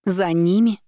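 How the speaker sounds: startled, rising question; за ними cried out high with a sharp rise; exclaimed. Acted. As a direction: throw the words back in disbelief. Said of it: "вскричала я".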